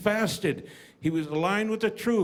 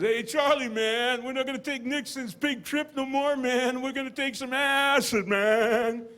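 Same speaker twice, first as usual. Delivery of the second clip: lightly voiced hippie roommate, higher; a hint of a laid-back stoner drawl; stoned hippie; 4 semitones higher than usual. Roommate pitching acid, lightly voiced hippie. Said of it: "do I gotta talk like that too".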